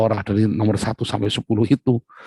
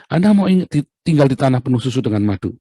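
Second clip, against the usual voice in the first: God calling out; 3 semitones higher, 5 dB louder than usual. Acted. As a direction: proclaim it like God offering a land of milk and honey. God offering the promised land.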